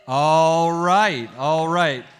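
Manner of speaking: hyped. Real, not acted. Hyping up the crowd.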